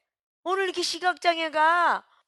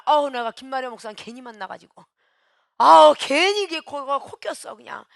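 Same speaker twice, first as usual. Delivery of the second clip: grumbling complaint; 6 dB louder than usual. Retold or imitated. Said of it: "그러면서 옆에 사람 막 원망합니다".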